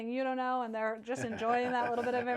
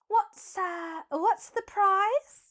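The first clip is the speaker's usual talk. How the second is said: sly question; 8 semitones higher, 3 dB louder, much slower than usual. Acted. Captain teasing merfolk.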